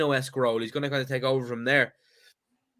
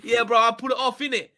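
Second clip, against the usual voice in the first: mock London slang; 6 semitones higher than usual. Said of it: "You can't fucking say nah".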